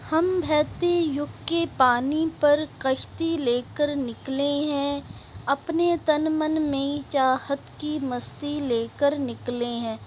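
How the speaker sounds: slow, measured verse reading; poem recitation. Acted. Teacher reciting a patriotic poem to students, measured recitation. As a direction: recite it slowly in drawn-out rhythmic phrases.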